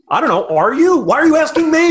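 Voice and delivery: hammed-up confused retort; mock bafflement. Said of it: "mock confused reply to upspeak".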